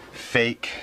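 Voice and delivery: "fake" stressed and drawn out; emphasis on fake. Shown as a demonstration. Ranting about government, he lands the word "fake" with stress. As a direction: lean hard on "fake". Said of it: "Can I emphasize on the word".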